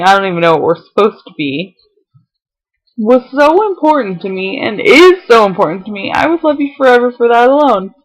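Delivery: reading on through real tears; crying. Real, not acted. Reading his partner's love letter to camera, crying for real. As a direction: keep reading while crying. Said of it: "sorry, I'm crying".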